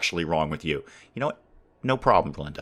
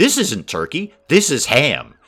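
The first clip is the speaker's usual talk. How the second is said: play-acted loud, very authoritative, commanding voice; 3 semitones higher, 5 dB louder than usual. Imagining a doctor at a family Thanksgiving table, imitating Linda's authoritative voice. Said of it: "in a very, very authoritative voice".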